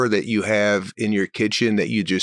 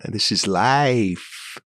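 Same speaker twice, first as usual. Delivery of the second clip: ranting; 3 semitones higher than usual. Retold or imitated. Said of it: "I went into a rant".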